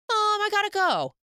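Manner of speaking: high, flustered blurt; mock panicked exit. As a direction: imitate someone making a hasty escape. Acted hasty escape, runs off after.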